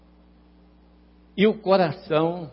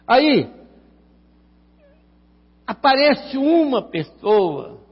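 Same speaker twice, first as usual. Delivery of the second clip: preaching; 6 semitones higher than usual. Acted. Preaching with rising force.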